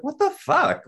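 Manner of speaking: high, loud incredulous outburst; exasperated, squeaking-high disbelief; retold anger. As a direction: replay being mad at him, voice leaping way up. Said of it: "getting so mad at him".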